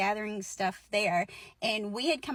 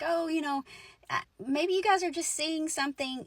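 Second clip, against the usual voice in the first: higher-pitched, casual soothing as a mom; calming mom; 5 semitones higher than usual. Retold or imitated. Mom defusing things for a scared friend, calming. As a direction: imitate a mom smoothing things over. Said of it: "tries to diffuse the situation and calm Melissa".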